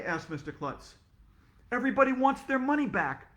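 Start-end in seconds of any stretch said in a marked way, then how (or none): 1.7-3.4 high, loud frantic call; panicked shout. Acted. Teacher at the computer, high frantic shout. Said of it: "shouted Mister Cooper".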